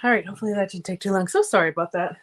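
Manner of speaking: breathless after running upstairs; out of breath. Real, not acted. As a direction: talk while catching your breath. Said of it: "Now I'm gonna be out of breath".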